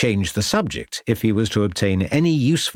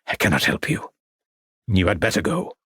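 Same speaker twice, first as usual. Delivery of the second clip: put-on weary old artist. Artist refuses, old Frenchman.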